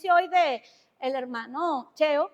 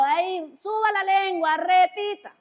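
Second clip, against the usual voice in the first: lightly voiced parent drilling a child; raised, insistent speech-lesson voice; coaching parent; 3 semitones higher than usual.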